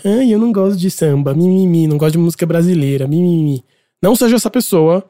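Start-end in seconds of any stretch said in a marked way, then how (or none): 0.0-3.6 lightly mocking a tiresome complainer; a hint of petty, blah-blah grumbling; whiny nagging person. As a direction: put on a mild whine to mock the naysayers. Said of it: "pessoa chata que fala".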